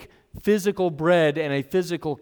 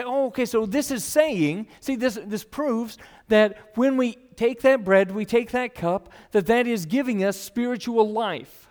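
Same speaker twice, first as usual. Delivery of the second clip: higher, a touch of naive excitement; mock eager realization; 5 semitones higher than usual. Preacher imitating listeners who jump to the Lord's Supper, lightly eager. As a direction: play the eager reader who thinks he's cracked it. Voicing others' eager misreading.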